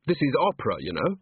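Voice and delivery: sighing, hesitant excuse; mildly uncomfortable, with a sigh midway; awkward. Acted.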